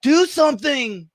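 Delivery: lightly hammed-up angel nagging; guardian angel voice. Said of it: "My guardian angels are like".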